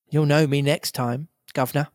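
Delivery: grinning tramp voice; cheeky tramp. Acted. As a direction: grin and jeer. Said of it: "I said".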